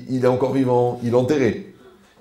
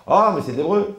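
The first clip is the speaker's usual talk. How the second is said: mock dismayed protest; 7 semitones higher, 6 dB louder than usual. Student protesting the answers.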